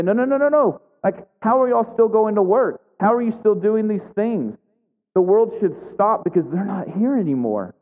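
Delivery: high, pleading cry for the world to stop; anguished protest. Retold or imitated. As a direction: beg everyone to halt, outraged with grief. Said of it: "we feel the angst and the anger and the frustration".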